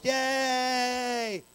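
Elmo. Acted. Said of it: "All a bunch of Elmos".

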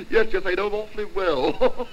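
giggly, high, nervous small talk; nervous laughing chatter. Acted. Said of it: "an exceedingly nervous man".

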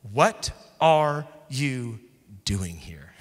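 slow, then fading into a whisper; whispered question. Retold or imitated. God questioning Elijah in the cave, whispered. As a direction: let God's question sink to a whisper. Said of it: "And he says".

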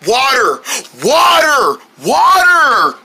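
mounting, urgent exclamations; building excited calls. Acted. Excited call for water.

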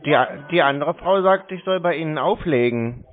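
loud report. Real, not acted. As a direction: speak up so the caller hears clearly. Loud report to the other caller. (lauter, nachdrücklich)

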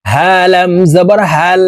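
"হা" and "হাল" from the start of the throat; Arabic h in "হাল" from deepest throat; small ha. Shown as a demonstration. Teacher showing the small ha, throat-start h. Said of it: "হলকের শুরু থেকে উচ্চারণ করব".

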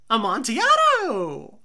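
loud, high cry of the wine's name; excited drunk Fortunato. Acted. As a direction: shout it out, hooked on the wine.

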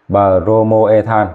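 Bromoethan stretched out, every syllable separate; slow clear naming. Shown as a demonstration. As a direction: say Bromoethan slowly so the class can copy. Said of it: "Đó, quan trọng bây giờ".

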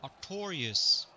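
"Artorius" as ar-TOR-ee-us, loud and drawn out; correct pronunciation. Shown as a demonstration. Streamer shows a viewer's name, "Artorius" said ar-TOR-ee-us. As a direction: say "Artorius" slowly, stressed on TOR. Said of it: "That's the correct pronunciation".

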